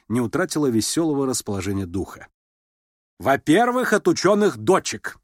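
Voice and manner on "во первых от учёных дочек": higher, louder snapping reply; mother snapping at daughter; curt retort. A narrator's reading. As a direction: cut it off sharply. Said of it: "отрезала генеральша".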